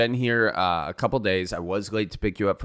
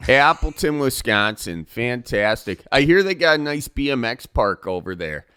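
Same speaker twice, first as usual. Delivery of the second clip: Northwoods radio host; 3 semitones higher than usual. Acted. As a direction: welcome listeners like a backwoods radio show host. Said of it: "I'm the host of Northwoods Radio".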